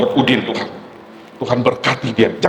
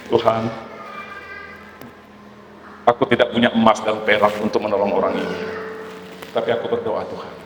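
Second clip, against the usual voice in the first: hushed prayer; 5 semitones lower, 9 dB quieter than usual. Acted. Pastor voices a hushed prayer.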